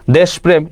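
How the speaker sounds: দেশপ্রেম as desh-prem, closed first syllable; no vowel between sh and prem in দেশপ্রেম; rejected pronunciation. Shown as a demonstration. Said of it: "এটাও তো বাদ".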